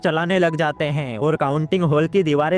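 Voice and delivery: steady, evenly pitched plot narration; movie explainer voiceover; story recap narration. A narrator's reading. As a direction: narrate the plot in a continuous, regular rhythm.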